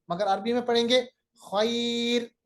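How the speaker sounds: खैर said the Arabic way, ai softened; Arabic pronunciation. Shown as a demonstration. Teacher models खैर the Arabic way for students. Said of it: "पढ़ते हैं ना खैर उर्दू में".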